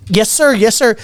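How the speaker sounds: high, eager nervous reply; nervous yes sir. Retold or imitated. Nineteen-year-old host answering Jamie Foxx, high and nervous. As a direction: answer high and quick like a scared kid. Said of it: "nervous as hell".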